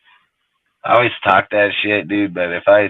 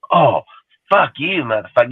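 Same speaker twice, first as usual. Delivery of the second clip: mock outburst, pitched way up; angry girlfriend; 6 semitones higher, 5 dB louder than usual. Girlfriend firing back in an argument, high mock-angry outburst. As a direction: imitate her exploding in a high voice.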